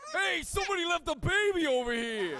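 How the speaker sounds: loud called-out announcement; announcing a baby. Shown as a demonstration. Asked for a bit, shouting that someone left a baby. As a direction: call it out across the room. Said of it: "Yeah, do it".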